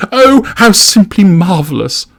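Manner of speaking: very high, slow, loud gush; gushing announcement. A narrator's reading. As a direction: swoon grandly over the news. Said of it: "announces Jane".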